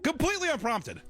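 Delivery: high, disbelieving repeat; shocked echo; incredulous. Real, not acted. Incredulous repeat of story phrase.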